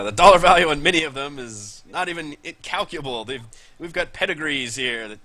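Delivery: flustered rancher tripping over his words; sputtering. Acted. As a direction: splutter out the pedigree list in a huff. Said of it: "He seems to be, like, sputtering at this point".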